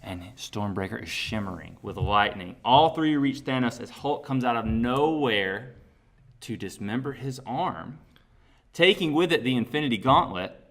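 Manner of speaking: slow, emphatic trailer-style storytelling; dramatic script narration. Acted. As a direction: build the battle with big punched words and pauses. Narrates their imagined climax script.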